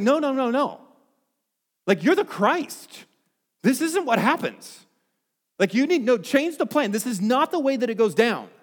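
rebuking tone with the word "no" stretched out. Speaker retells Peter answering Jesus's radical words: acting out Peter rebuking Jesus. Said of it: "He's rebuking the Lord".

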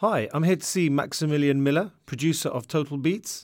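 ordinary delivery

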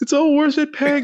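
high, far-off, reverent voice. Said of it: "and he's like".

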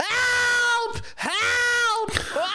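loud scream. Retelling coming home to game and suddenly hearing someone, retelling a loud scream. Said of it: "maar echt keihard".

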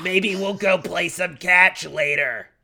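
put-on Long Island accent with heavy-smoker rasp. Voicing a proud onlooker praising someone; Long Islander smoker voice. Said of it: "doing Long Islander who smokes too much voice".

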